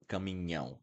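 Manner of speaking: caminhão with nh and a nasal ão ending; Portuguese nasal ão. Shown as a demonstration. Teacher models caminhão, nh plus nasal ão. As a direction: end caminhão through the nose. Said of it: "a good word to pronounce and practice".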